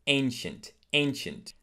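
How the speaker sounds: ANCIENT opening with a long A; correct ancient. Shown as a demonstration. Teacher modelling ancient for learners, long A. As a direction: say "ancient" as "AIN-shent". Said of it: "Put it on the first syllable".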